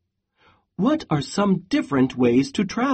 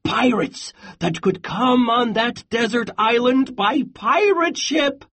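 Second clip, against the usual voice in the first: worried warning; 3 semitones higher than usual. Acted. Goat warns Pig, growing alarm.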